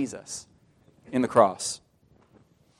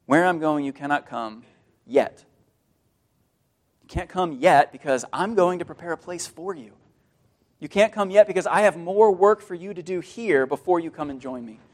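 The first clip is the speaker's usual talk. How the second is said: tender promise. Acted. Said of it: "a very different message when he says it to his disciples".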